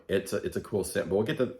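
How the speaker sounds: hiccuping between words; hiccuping while eating. Real, not acted. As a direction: speak through hiccups after a meal. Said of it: "Sorry, I keep hiccuping".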